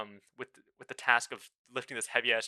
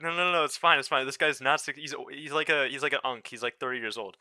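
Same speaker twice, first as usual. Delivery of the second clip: louder, higher, rushed reassurance; flustered protest; 4 semitones higher, 6 dB louder than usual. Retold or imitated. Brushing off a stranger over coworker's age, flustered and loud. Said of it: "so I was like".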